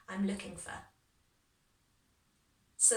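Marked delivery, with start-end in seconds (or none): 0.1-0.9 "for" shortened to a weak "fuh"; reduced "for". Shown as a demonstration. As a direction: let "for" fade into a neutral vowel. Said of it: "hear how the for just becomes for".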